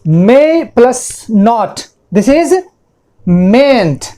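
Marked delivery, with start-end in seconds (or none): 3.3-4.0 mayn't as one long syllable, MAYNT; model pronunciation. Shown as a demonstration. Teacher shows students how mayn't sounds, modelled slowly. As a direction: say "mayn't" low and drawn out in one beat. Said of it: "pronunciation देखिए".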